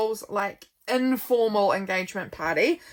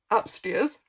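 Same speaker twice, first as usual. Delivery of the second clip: said through a yawn; stretched out mid-yawn. Real, not acted. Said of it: "I'm yawning".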